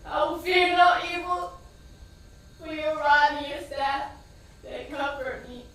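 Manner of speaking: shouted psalm. Retold or imitated. Shouting scripture as they take her son away, loud. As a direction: yell the prayer after the ambulance. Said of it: "I kept going".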